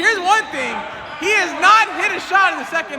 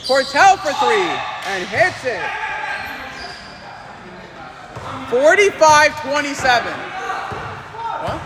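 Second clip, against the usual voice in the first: quick, lively sports commentary calling each play; 2 semitones higher than usual. Acted. Commentator calling the game for viewers, live play-by-play. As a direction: call the game like a courtside announcer.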